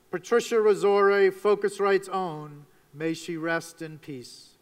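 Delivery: subdued memorial, fading away at the end; solemn tribute. Real, not acted. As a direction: pay hushed respect to a lost colleague. Memorial to a late colleague.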